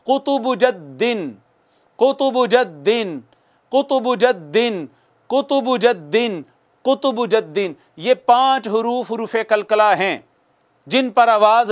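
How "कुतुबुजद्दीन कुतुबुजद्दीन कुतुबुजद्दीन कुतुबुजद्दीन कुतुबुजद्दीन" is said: "कुतुबुजद्दीन" recited syllable by syllable; drill recitation. Shown as a demonstration. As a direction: chant "कुतुबुजद्दीन" for students to repeat. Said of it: "पांच दफ़ा मुझे follow कीजिए".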